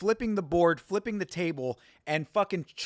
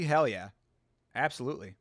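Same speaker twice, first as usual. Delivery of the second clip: put-on a light Pacific Islander accent on a quick agreement; 4 semitones lower than usual. Streamer answering chat in a mild Islander accent. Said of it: "That was an awesome Islander accent".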